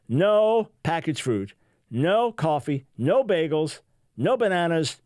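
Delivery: each "no" hit firmly, items spaced out; radio host reading the demands with mock emphasis; emphatic list. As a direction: lean on every "no" like a strict demand. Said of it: "quite emphatically".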